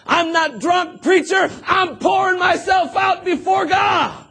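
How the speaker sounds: high, loud earnest protest; Hannah protesting. Retold or imitated. Hannah answering the preacher, shouted earnest protest. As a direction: insist you're only praying. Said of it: "Hannah answers preacher".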